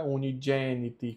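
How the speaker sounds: "unigeniti" with G said as dj. Shown as a demonstration. Teacher summing up the rule, G said as dj. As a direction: say oo-nee-JEH-nee-tee for "unigeniti". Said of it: "ele fica a pronúncia G".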